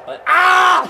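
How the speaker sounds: laughing shout. Real, not acted. Mate cracks up at the game, laughing yell. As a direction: burst out laughing mid-word.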